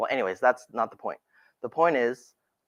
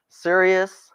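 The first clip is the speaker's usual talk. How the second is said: serious tonality; 5 semitones higher than usual. Shown as a demonstration. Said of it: "We've got a serious tonality".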